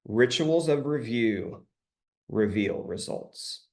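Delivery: slow and deliberate. Shown as a demonstration. Coach recites a favorite saying to the group, slowly. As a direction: say it slowly, phrase by phrase. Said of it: "I'll say it slowly".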